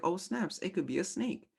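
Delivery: high, startled inner voice; a sudden alarmed "oh, snaps". Retold or imitated. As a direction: jump at a snake-shaped stick. Body reacting to a stick.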